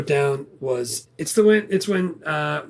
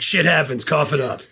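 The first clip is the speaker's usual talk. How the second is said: matter-of-fact quoted retort near own pitch; lightly voiced, dismissive demand for payment; guerrilla's retort. Guerrilla demands the Monopoly money, matter-of-fact retort. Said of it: "the kid says the same thing".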